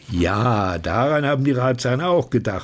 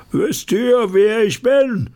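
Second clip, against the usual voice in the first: hoch und laut in die Menge gerufen; laute Frage an die Menge; 11 semitones higher, 5 dB louder than usual. Acted. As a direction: ruf es übers ganze Publikum. Narr ruft der Menge zu. (sehr hoch, lauter Ausruf)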